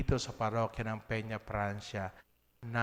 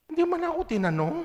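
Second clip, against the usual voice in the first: the repeat pushed much higher and louder; indignant outburst; 14 semitones higher, 5 dB louder, faster than usual. Retold or imitated. Priest to his parish, repeating that nobody asked him, indignant outburst. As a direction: cry it out as if still stung by it.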